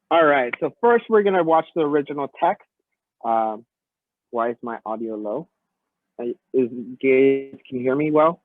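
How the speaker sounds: sounds muffled, like underwater; muffled audio. Real, not acted. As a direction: voice through a wall. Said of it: "It sounds weird".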